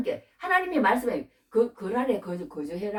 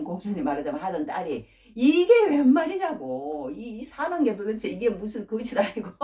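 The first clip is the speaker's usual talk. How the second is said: imitated dismayed exclamation. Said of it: "우리 집에 와보시더니".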